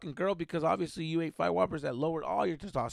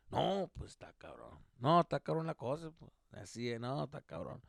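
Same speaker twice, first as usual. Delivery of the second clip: indifferent dad; 5 dB quieter than usual. Retold or imitated. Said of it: "my dad didn't give a fuck".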